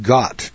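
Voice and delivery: Gott with a short vowel and hard final T; German pronunciation. Shown as a demonstration. Telling how Germans pronounce it, Gott ending in crisp T. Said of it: "and they pronounce it".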